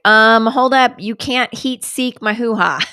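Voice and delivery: loud outraged objection, slowing at the end; hammed-up protest, stopping them cold; mock indignant. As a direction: students loudly objecting to sensors. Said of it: "cybersec students that were like".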